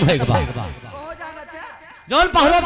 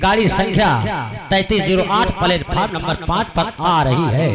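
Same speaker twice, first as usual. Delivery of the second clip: echoing train announcement; 6 semitones lower than usual. Pretend. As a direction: announce it like the railway PA. Mock railway station announcement.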